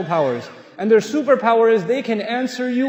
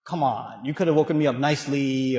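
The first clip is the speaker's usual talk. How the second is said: mock complaint; 7 semitones lower than usual. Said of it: "I could get up and say".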